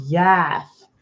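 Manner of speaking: put-on lisping little kid saying yes; childlike lisped "Yath"; lispy kiddo. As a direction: mimic a small child's lisp on yes. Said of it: "little lispy kiddo".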